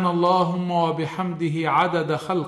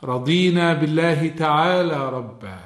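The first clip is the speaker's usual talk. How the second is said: prayer. Acted. Sheikh reciting the evening supplication to listeners, prayerful.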